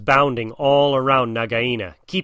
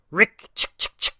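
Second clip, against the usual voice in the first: higher chattering animal call; mongoose war cry; 8 semitones higher than usual. Acted. Mongoose calls his battle cry at the cobra, higher chatter. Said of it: "called Rikki Tikki".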